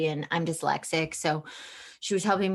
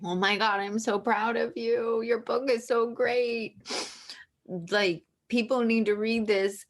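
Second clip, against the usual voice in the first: mom's praise; 5 semitones higher than usual. Retold or imitated. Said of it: "but she said".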